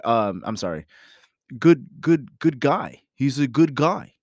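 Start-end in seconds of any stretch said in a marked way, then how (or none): 1.6-4.1 imitating aunt. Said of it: "when I hear my aunt say".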